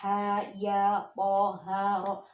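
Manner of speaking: measured letter-by-letter reading of "Ha, ya"; voweled letters. Shown as a demonstration. Teacher shows upright letters read by their marks, evenly spaced syllables. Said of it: "hidup tandanya".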